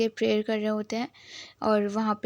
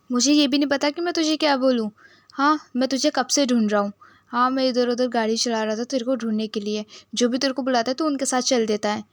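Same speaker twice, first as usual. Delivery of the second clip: a touch louder, mildly exasperated scolding; angry scolding; 4 dB louder than usual. Retold or imitated. Son scolding drunk Juen for wandering off, mildly angry. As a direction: lightly play an annoyed older brother telling him off. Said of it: "बहुत ज़्यादा गुस्सा आ रहा होता है सॉन को".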